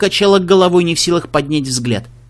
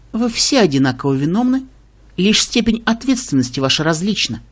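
condescending smile; 4 semitones higher than usual. Acted. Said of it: "со снисходительной улыбкой".

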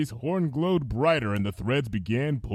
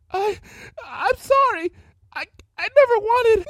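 wobbly jaw; 6 dB louder than usual. Acted. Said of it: "felt her jaw tremble".

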